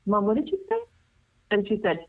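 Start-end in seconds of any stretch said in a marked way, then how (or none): 0.1-0.8 aunt's voice jumps much higher in shock; as if she can't believe her ears; shocked disbelief. Retold or imitated. Aunt asking her mother to repeat herself, shocked and high. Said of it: "my aunt goes".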